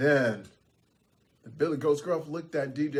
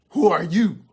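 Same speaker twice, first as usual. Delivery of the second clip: loud, challenging question; challenging troll; 2 semitones higher, 6 dB louder than usual. Acted. DJ Troll confronts a large goat at his party, challenging. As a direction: challenge the newcomer loudly.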